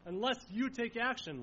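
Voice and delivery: loud, pleading cry of fear; desperate plea. Acted. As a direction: plead as if drowning. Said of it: "They admit their desperation".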